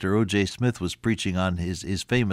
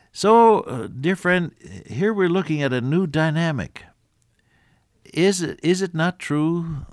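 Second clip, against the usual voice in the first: preaching; 6 semitones higher than usual. Real, not acted. Preaching burst after aside.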